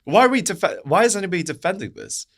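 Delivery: high-pitched, incredulous outrage; real outrage. Real, not acted. Commentator asking why anybody defends stoning, outraged. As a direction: demand an answer, voice pitched right up.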